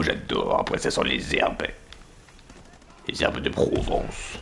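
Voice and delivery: slow dry whisper. Pretend. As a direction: whisper it slowly, deadpan.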